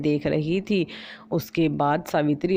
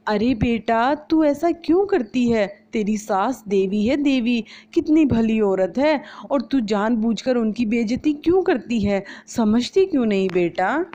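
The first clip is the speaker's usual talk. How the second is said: much higher, pleading motherly voice; chiding mother; 6 semitones higher than usual. Acted. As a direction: coax your daughter to behave. Mother chides her daughter. (बेटी को समझाती माँ की ऊँची आवाज़)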